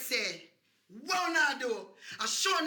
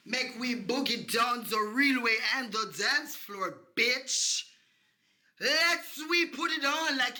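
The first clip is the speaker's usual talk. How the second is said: hype shout; 4 dB louder, slower than usual. Acted. Hyping up dance floor.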